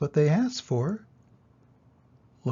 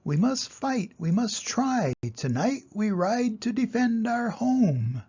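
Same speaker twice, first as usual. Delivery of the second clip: rallying cry; 7 semitones higher than usual. Acted. Mouse rallies to fight.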